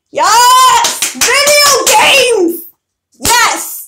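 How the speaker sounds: high, loud, stretched-out cheer; excited cheer. Real, not acted. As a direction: shout it like a thrilled fan. Cheering over video games.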